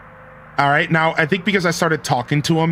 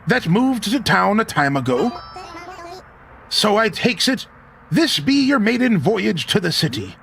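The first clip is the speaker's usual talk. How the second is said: lightly voiced old sailor, higher; a hint of a hearty sea dog; scottish laird; 5 semitones higher than usual. Reads old sea captain's lines.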